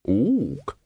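single swooping hoot; short ape acknowledgement. A narrator's reading. Librarian answers the wizard's request, hooting.

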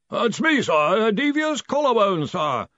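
high, eager underling's voice; Devious Collarbone. A narrator's reading. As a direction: report in dutifully to a superior. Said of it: "said a voice from the omniscope".

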